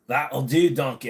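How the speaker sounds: light Scottish Shrek voice; a hint of Mike Myers as Shrek; Shrek impression. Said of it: "I'll do the Mike Myers".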